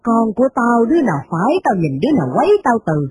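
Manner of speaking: a hint of a sharp matriarch snapping back; indignant old mistress. Mistress scolding the maid who defends her son, mildly indignant. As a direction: retort like a scornful rich old lady.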